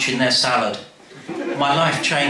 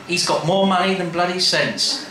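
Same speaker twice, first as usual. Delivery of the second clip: Nan's verdict; 5 semitones higher than usual. Acted. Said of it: "Nan's verdict".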